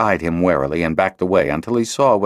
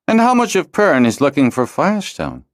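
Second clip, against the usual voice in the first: nonchalant; 10 semitones higher, 4 dB louder than usual. A narrator's reading. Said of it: "he asked nonchalantly".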